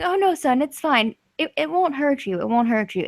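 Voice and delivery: softly soothing, lightly acted; gentle reassurance. Old man reassures the frightened adventurer.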